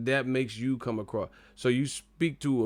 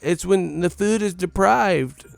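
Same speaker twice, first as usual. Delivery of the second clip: mock pageant contestant; 8 semitones higher, 9 dB louder than usual. Mocking a contestant answering the hunger question, high and loud. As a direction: gush like a pageant girl with no answer. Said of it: "Miss America".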